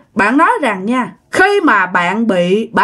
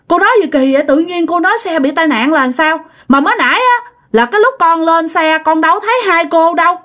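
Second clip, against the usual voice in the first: mildly indignant protest, slightly raised pitch; arguing back; 4 semitones higher than usual. Acted. Passenger disputes the woman's talk of an accident, indignant arguing. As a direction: argue back in disbelief. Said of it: "Các bạn cãi".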